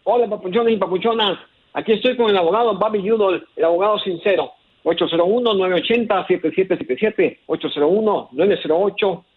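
upbeat radio commercial read; sample ad read. Shown as a demonstration. Caller demonstrating how to read the ad. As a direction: sell it like a fifteen second spot. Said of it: "va así, mira".

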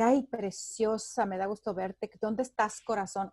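slow, soft, syrupy sweet-talk; a creepy fan messaging her, lightly voiced sweet talk; mock creepy admirer. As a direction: croon it like an overfamiliar creep. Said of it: "pero me dice".

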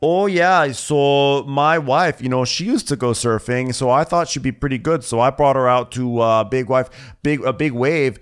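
high, loud, carefree bro voice; hammed-up oblivious husband bragging; mock surfer guy. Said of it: "He's like".

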